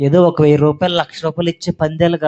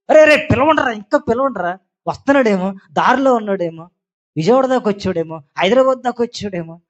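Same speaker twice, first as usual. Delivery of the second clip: mocking Elijah; 3 semitones higher than usual. Elijah mocks the Baal prophets, teasing and sarcastic. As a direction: jeer at them as if helping them call. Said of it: "ఎటకారం చేస్తున్నాడు".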